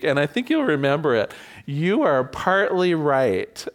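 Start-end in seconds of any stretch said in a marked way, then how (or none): 1.7-3.7 slow, measured admission; deliberate concession. Shown as a demonstration. Teaching the class a mantra, slow deliberate concession. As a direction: let each word land slowly. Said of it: "The third one we laughed about".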